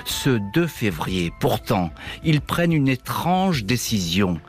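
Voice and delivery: ominous documentary narration; horror trailer voice. Acted. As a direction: tell it like a dark mystery trailer. Dramatic narrated intro over music. (voix de bande-annonce d'horreur)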